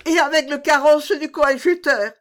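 high, loud amazement; astonished exclamation. A narrator's reading. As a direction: exclaim it as if scarcely believing it. Queen amazed at the coach.

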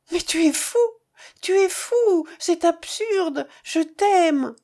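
high, urgent entreaty; pleading. A narrator's reading. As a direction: plead with the lover, pitched well up. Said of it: "Elle le suppliait". (supplication, voix haut perchée)

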